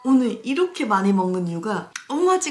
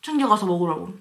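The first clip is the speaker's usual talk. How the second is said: normal talking voice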